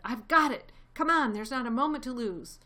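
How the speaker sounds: high, loud eureka shout; father fox shouting his plan to the family; excited shout. A narrator's reading. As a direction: burst out with the sudden idea. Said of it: "He jumped up and shouted".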